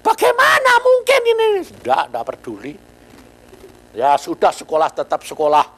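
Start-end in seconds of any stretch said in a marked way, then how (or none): 0.0-1.5 high, loud incredulous question; disbelief. Retold or imitated. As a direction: ask it as if it can't be true.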